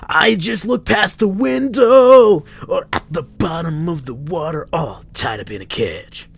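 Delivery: very high, loud hammed-up wail; theatrical lament. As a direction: overplay a grief-stricken preacher. Clint's strange lines.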